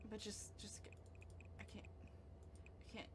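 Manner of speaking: breathless whisper of disbelief. Real, not acted. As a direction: whisper it, too stunned for voice. Watching the fire spread.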